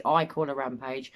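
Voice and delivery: "I" hit first and strongest; stress on I. Shown as a demonstration. Host contrasting who calls her rampage, stressing I. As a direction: put the weight on "I". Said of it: "Not we call her rampage".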